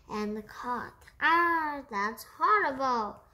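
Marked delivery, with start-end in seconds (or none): 1.2-3.2 loud, revolted cry; disgusted outburst. Acted. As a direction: spit the words out in disgust. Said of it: "he shot".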